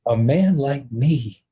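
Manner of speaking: slow, emotional repeat; real emotion. Real, not acted. Teller dwelling on the inmate's words, slow and emotional. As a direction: echo the words slowly, feeling them. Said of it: "always get emotional".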